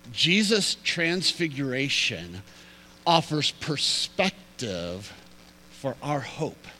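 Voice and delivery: each phrase slowed, with pauses between; slow, deliberate thesis. Shown as a demonstration. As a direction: let the main point land slowly. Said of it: "repeated thesis, slowed".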